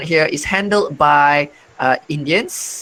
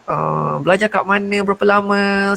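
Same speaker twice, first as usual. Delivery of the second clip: high, friendly chatty questions in Malay; eager, higher-voiced small talk; friendly greeting; 5 semitones higher than usual. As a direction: imitate welcoming compatriots, pitched up. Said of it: "are very, very friend-, friendly, and they would say".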